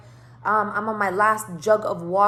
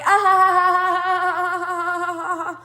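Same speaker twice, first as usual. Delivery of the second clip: loud, much higher forced ha-ha; awkward laugh; 9 semitones higher, 6 dB louder than usual. Retold or imitated. To the driver asking about her wedding, forced laughing. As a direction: laugh it off to dodge.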